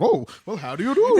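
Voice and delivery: high, loud, cheery hello with a laugh; hammed-up oblivious politeness; blithely unbothered greeting. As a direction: greet them as if nothing happened. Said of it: "he doesn't feel unsafe at all".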